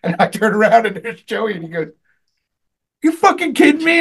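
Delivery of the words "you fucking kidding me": high-pitched imitated disbelief; retold incredulity. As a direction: act out a friend's stunned outburst, pitched way up. Retells Joey's stunned reaction.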